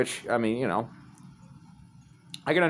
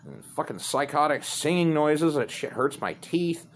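raised-pitch imitation of dad's rant; a mildly angry retold old-man tirade; snapping dad rant; 5 semitones higher than usual. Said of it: "he just fucking snaps".

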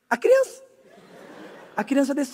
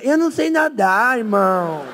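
scared. Retold or imitated. Tigas apavorado.

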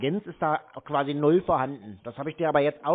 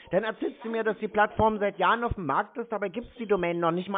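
rising, higher-pitched rant; angry rant; 5 semitones higher than usual. Real, not acted. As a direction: tear into the scammer, voice climbing. Wütende Tirade gegen den Betrüger. (wütende, hohe Schimpftirade)

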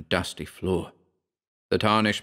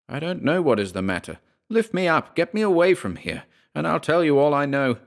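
frightened man pleading; 7 semitones higher than usual. Acted. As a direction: beg to be lifted away, voice climbing in fear. Terrified narrator begs his friend.

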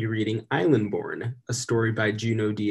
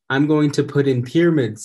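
put-on excited kid; 4 semitones higher, 8 dB louder than usual. Kids excited in story.

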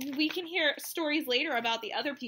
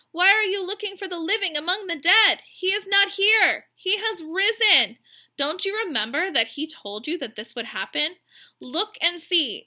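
lightly voiced angel, higher and louder, slowed on key words; angel's voice; 4 semitones higher, 7 dB louder than usual. Angel announcing to the frightened women: lightly voiced, raised, proclaiming. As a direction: announce it like a heavenly messenger.

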